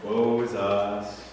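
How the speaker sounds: slow mopey lament; mock moping. Israelites in booths moping, slow mock lament. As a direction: droop it like sulking mourners. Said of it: "everybody would go".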